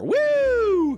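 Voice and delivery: high, loud mock "woo"; party cheer. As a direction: whoop like a group posing for a photo. Imitating group cheering for photo.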